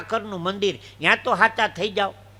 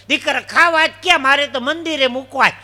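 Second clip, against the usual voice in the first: raised, higher-pitched protest; lightly acted old woman; 5 semitones higher, 5 dB louder than usual. Old woman tells seller bananas are for temple, protesting lightly.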